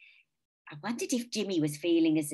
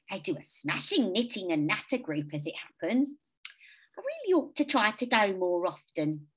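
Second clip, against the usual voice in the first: put-on high kindly old lady; sweet elderly neighbour, lilting; 6 semitones higher, 3 dB louder than usual. A narrator's reading.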